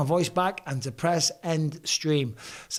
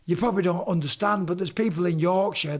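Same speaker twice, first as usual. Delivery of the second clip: normal talking voice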